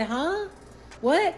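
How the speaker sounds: high, baffled huh and what; startled disbelief. Retold or imitated. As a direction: caught completely off guard. Reacting to public kiss.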